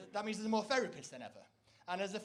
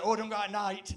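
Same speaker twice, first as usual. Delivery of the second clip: fretful warning, a bit louder; village friends; 7 dB louder than usual. Retold or imitated. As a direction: warn like a nervous local. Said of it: "Or they'll do".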